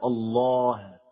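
الله with a thin, clear final ه; careful recited الله, unthickened ending; light final ha. Shown as a demonstration. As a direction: lengthen الله and release the ه lightly. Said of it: "ترقيق الهاء في لفظ الجلالة".

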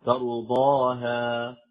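very slow recited ترضاها, open final ها; drawn-out tajweed model of ترضاها. Shown as a demonstration. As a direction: stretch ترضاها with a clear open aa at the end. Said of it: "يعني أن تكون مفتوحة".

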